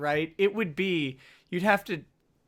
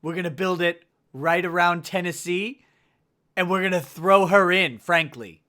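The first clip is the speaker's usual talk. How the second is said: punchy rally-speech impression; Donald Trump; 5 dB louder than usual. Co-host promising to build that wall, mock Trump impression. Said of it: "I can't do a Trump".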